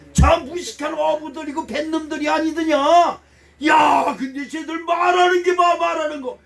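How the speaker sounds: loud, high exclamations of amazement; astonished onlookers. Acted. Crowd marvelling at uneducated fishermen speaking, loud acted astonishment. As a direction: cry out in acted disbelief. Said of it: "이렇게 놀라는 거예요".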